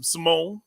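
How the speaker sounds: salmon said as "Simone", suh-MOAN; "Simone" for salmon, stressed on the end; odd pronunciation. Pretend. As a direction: stretch the second syllable of "Simone". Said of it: "What are you saying?".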